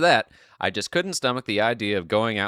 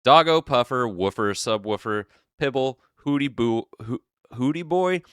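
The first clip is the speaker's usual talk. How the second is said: mock baby talk; 4 semitones higher than usual. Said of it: "adding a toddler-esque lisp to the words".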